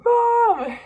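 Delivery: put-on high shrieky little-kid call of Mom; a toddler's loud high-pitched cry for mom; toddler yelling mom. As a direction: imitate a two-year-old shouting for mom. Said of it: "And then he's like".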